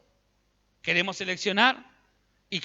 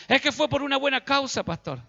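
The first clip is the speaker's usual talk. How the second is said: higher whiny excuse; mock excuse; 6 semitones higher than usual. Churchgoer excusing himself to the pastor, higher and whiny. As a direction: plead a lame justification.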